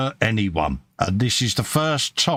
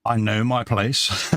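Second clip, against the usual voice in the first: Ronnie Barker quote; slower than usual. Retold or imitated. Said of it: "as Ronnie Barker would say".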